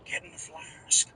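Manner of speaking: put-on slow slurred drunk voice; mock drunk slur. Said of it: "you slurring your words".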